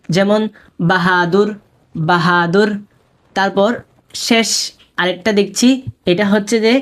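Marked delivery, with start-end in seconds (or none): 0.9-2.7 বাহাদুর with a distinct h in the middle; clearly sounded h. Shown as a demonstration. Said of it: "স্পষ্ট উচ্চারণ হয়".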